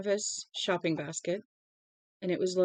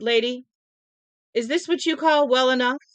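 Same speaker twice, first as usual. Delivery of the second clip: sharp retort; 5 semitones higher, 6 dB louder than usual. Acted. Narrator retorts to Mrs Carmody.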